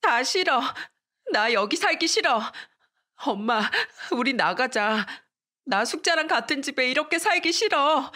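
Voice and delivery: mock childish tantrum at mom; upset outburst. Daughter refuses to live with Sukja, angry and high. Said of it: "엄마한테 화를 냈어요".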